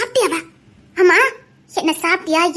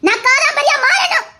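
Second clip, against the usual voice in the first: higher, hardened vow with a falling end; firm resolve; 6 semitones higher, slower than usual. Acted. Aadhira swearing to become Kadambari, hard and resolved. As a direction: say it like her mind is made up.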